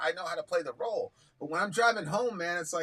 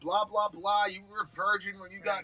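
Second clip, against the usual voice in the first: heated rant; 5 semitones higher than usual. Retold or imitated. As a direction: tear into him, voice up and pushing. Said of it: "But I'm like".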